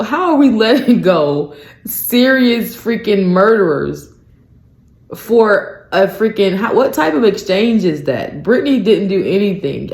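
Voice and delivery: worked-up incredulous outrage; indignant disbelief. Real, not acted. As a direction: demand an answer, appalled at the deal. Indignant rant about the exchange.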